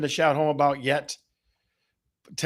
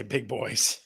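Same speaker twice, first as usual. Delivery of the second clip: plain statement; 6 semitones lower, 5 dB quieter than usual. Shown as a demonstration.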